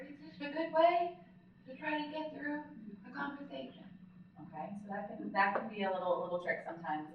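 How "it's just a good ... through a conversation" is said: inhaled speech. Shown as a demonstration. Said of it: "inhalation phonation".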